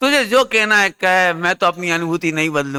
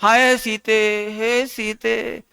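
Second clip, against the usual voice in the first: mock lament; 3 semitones higher, much slower than usual. Ram lamenting for Sita.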